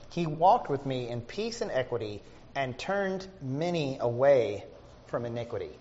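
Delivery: slow, deliberate Bible reading; measured recitation, dropping away at the end; scripture reading. Acted. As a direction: read the verse out slowly and weightily. Reads scripture aloud to congregation.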